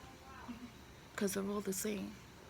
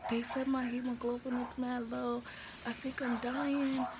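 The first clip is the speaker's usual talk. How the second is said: whispered crying quote; 3 semitones higher than usual. Retold or imitated. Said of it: "crying to him".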